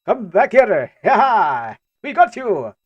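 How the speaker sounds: high, loud comic chase cries; gleeful caricature of a cop giving chase; mock police shout. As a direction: yell after a fleeing suspect, hammed-up. Acts French police chasing someone.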